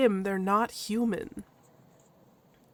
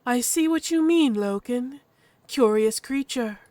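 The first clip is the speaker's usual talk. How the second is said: measured, slightly raised character voice; composed chief Dravonia; 3 semitones higher, 5 dB louder than usual. Acted. Chief assesses the newcomer, composed and curious.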